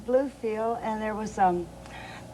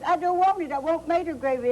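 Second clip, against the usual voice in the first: mock toddler refusal; 5 semitones higher than usual. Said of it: "she said".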